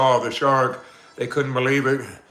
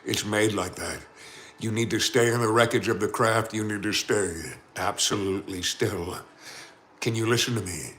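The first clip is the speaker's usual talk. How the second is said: calm captain; 3 dB quieter than usual. Acted. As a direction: talk them down calmly like a captain. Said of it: "in the most calm voice".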